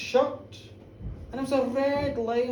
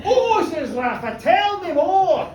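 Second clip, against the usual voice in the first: high, loud and slow "tell me more" with a laugh; eager; 5 semitones higher, 6 dB louder, slower than usual. Acted. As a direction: beg for the juicy details.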